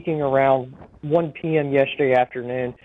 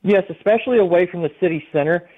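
over a phone line; speaking down a phone line. Real, not acted. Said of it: "we have you on the phone".

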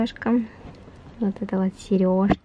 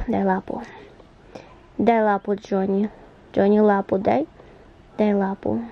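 talking to a dog; 2 semitones lower than usual. Real, not acted. Commanding a dog.

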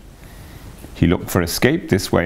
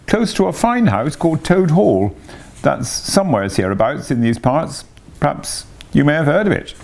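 lightly raised, pleading washerwoman voice; a put-upon laundress begging sympathy; Toad as washerwoman; 8 semitones higher than usual. A narrator's reading. Toad in disguise pleads with the barge woman.

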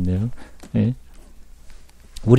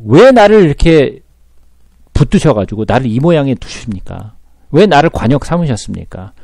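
complaining Job. Acted. Preacher voices Job complaining to God.

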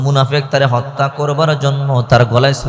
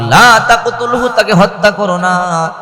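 stern rebuke; 7 semitones higher than usual. Acted. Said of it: "আবার ধমক দিয়ে বলে".

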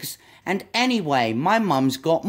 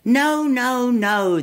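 high, loud no no no; upset little monkey protest; 6 semitones higher, 4 dB louder, slower than usual. Acted. Little monkey wailing at butterfly's wrong guess, high and loud. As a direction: cry out the denial like an exasperated little monkey.

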